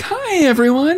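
high, bright fake-cheerful phone greeting; Mars phone voice. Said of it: "Mars does it on the phone".

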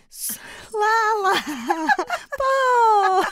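high, slow name dissolving into a laughing yelp; collapsing into laughter. Real, not acted. Host breaking down laughing at her own name mix-up. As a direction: lose it mid-word.

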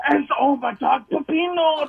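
high mock Guatemalan accent. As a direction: mimic the lawyer's Guatemalan accent, exasperated. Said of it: "Every other word is like".

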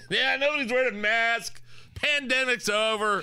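a laughing over-the-top Biden quote; Biden impression. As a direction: ham up the Biden line, loud and high. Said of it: "And here you have Biden".

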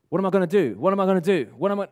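measured, deliberate asking, each question given room; composed question. Acted. Coach showing the question asked with good body language, composed and deliberate. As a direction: imitate someone asking themselves purposefully. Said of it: "now, now you're talking".

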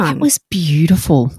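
mock admiring whisper. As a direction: hush it out. Mock praise.

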